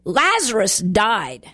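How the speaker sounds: slow, weighty stress on "Lazarus died"; emphatic. Retold or imitated. Preacher quoting Jesus on Lazarus's death, "Lazarus died" said slowly and emphatically. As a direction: say "Lazarus died" slowly and firmly, each word distinct. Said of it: "very emphatically says".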